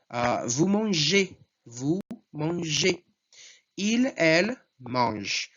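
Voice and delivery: vous mangez slow with the ez sounded as é; slow French conjugation demo. Shown as a demonstration. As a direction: drill vous mangez slowly. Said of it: "a mesma pronúncia".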